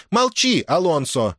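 high, sharp command falling on the name; cutting order. A narrator's reading. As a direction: cut the son off abruptly. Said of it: "отрезала Маргарита". (резко оборвать, властно)

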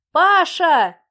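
mother calling her son from the porch, loud. A narrator's reading. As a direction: shout for her son in the garden. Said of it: "вновь крикнула женщина".

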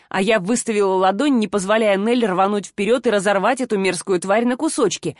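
usual speaking voice

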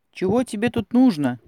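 stern, loud demand through the door; stern shout. A narrator's reading. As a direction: bark it at the stranger. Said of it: "сурово закричал вышедший кузнец". (суровый окрик)

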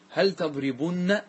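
slow تضربن with short "u" and doubled "-nna"; emphatic nun added. Shown as a demonstration. Teacher demonstrating emphasis to class, slowly stretching the nun. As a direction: lean on the doubled n ending تضربن, "tadribunna". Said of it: "أدخلنا نون التوكيد".

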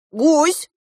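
high, loud summons; calling shout. A narrator's reading. Girl summoning the goose, calling out loud. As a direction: call the goose over. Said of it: "крикнула я".

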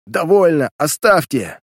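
a high, loud cry of pain giving in; breaking cry. A narrator's reading. Prisoner begging the detective to stop, pained cry. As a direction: scream it as the pain breaks him. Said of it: "Он не выдержал и крикнул".

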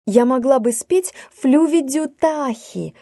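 meek voice. A narrator's reading. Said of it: "кротким голоском".

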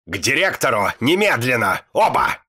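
building from loud to a very loud high bark. Acted. Teacher orders both boys to the principal, building to a roar. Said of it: "рявкнула она".

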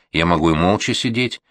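ordinary delivery, nothing marked

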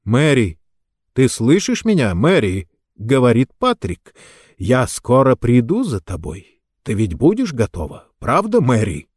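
clear, distinct, lightly Irish; light Irish accent. Acted. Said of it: "с лёгким ирландским акцентом".

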